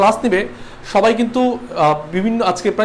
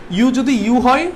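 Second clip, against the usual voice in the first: slow, word-by-word reading of the rule; slow rule recital; 3 semitones higher, slower than usual. Shown as a demonstration. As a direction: spell the rule out slowly for the class to copy. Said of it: "That means এখানে কি use করবো?".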